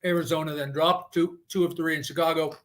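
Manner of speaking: talking while chewing ice; words around crunching ice. Real, not acted. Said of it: "Sorry, I'm chewing ice".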